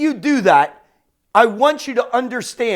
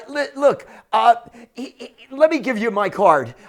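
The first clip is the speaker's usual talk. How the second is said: stumbling start with a chuckle; retold laughing. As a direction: re-enact talking through mild amusement. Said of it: "I'm just laughing all the way".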